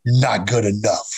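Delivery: slow, flat, emotionless verdict; stern mentor passing a flat verdict; flat Chris verdict. Retold or imitated. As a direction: say it cold and deadpan, slowly, like a machine. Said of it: "that's the way he talked".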